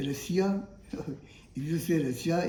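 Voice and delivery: 'Russia' as ruh-see-ya, with an s; incorrect pronunciation. Shown as a demonstration. Teacher quotes learners' mistake, s instead of sh. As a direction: say 'Russia' wrongly in three syllables. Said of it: "it is again incorrect".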